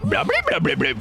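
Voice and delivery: Mister Blobby impression. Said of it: "might turn into Mister Blobby".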